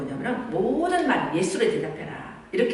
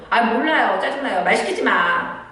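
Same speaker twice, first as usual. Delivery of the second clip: put-on irritated teen snapping back, higher and louder; sulky teenager; 4 semitones higher, 4 dB louder than usual. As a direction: brush off mom like a grumpy adolescent. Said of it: "막 이렇게 할 수 있잖아요, 사춘기 애들은". (짜증 내는 사춘기 딸)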